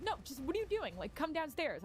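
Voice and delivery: patronizing mock of the producer; condescending. Producer talking down to her, mock condescending.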